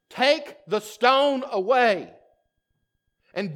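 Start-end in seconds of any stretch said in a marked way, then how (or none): 0.1-2.1 commanding Jesus. Acted. Jesus ordering the stone removed, firm command. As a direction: give the order with authority.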